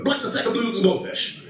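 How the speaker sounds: high-pitched mock screaming of garbled toddler words; high, garbled pretend tantrum yell; imitated toddler screaming. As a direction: imitate an irate little kid yelling gibberish, without real volume. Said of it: "He's just screaming this".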